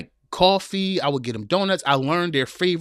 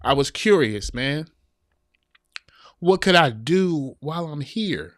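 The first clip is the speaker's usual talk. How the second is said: emotional; slower than usual. Real, not acted. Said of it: "I'm about to cry".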